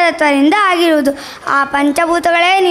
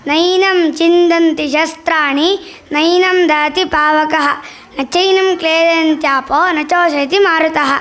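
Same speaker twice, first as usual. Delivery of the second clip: shloka recitation. Acted. Soul recites the Gita to the elements, measured chant. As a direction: recite it like a sacred verse.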